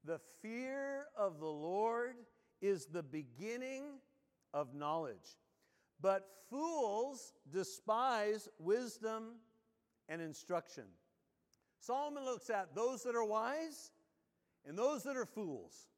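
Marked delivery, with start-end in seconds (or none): 0.0-10.8 scripture reading. Acted. Reads Proverbs verse aloud.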